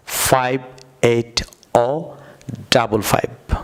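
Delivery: slow British drill, ও for zero, ডাবল ফাইভ; British number style. Shown as a demonstration. Teacher showing viewers the British way: ও and ডাবল ফাইভ. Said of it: "আমার সঙ্গে বলুন British, আহ, স্টাইলে".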